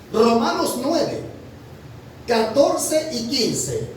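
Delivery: slow, deliberate reading of the reference; read slowly. Shown as a demonstration. Preacher reading the verse slowly for the congregation. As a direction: spell out each number slowly. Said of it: "Se lo voy a leer despacito".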